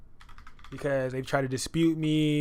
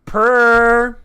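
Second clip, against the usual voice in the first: loud drawn-out hype; 8 semitones higher, 15 dB louder, much slower than usual. Real, not acted. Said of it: "So, I mean".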